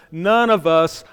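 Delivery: "none" stressed and stretched; emphasized none. Real, not acted. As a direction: lean firmly on "none" in "none of us". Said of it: "and I emphasize".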